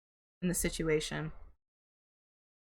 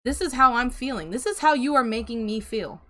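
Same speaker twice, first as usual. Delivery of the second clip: acted assertive confrontation, pitch raised; stepping up; 4 semitones higher, 3 dB louder than usual. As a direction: finally stand up for yourself, imitated. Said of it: "you finally stepping up and going".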